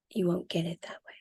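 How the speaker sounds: whisper. Real, not acted. Aside at the end of a point.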